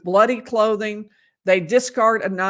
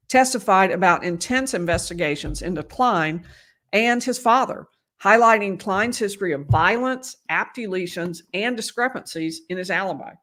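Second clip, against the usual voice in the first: hoarse, fading voice; losing her voice while reading. Real, not acted. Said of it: "Sorry, I'm losing my voice".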